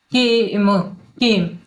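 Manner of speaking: केम with a long, stretched "ay"; के, म sounded apart, then joined as केम; drawn-out vowel. Shown as a demonstration. Teacher showing silent E in केम, vowel drawn out. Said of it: "खींच के बोलेंगे".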